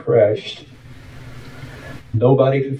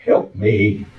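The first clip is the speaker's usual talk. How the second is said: imitated faint cry; 6 semitones higher than usual. Crashed driver calls to the runner above, faint cry. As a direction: act out a trapped man's spaced-out call. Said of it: "I heard that voice again".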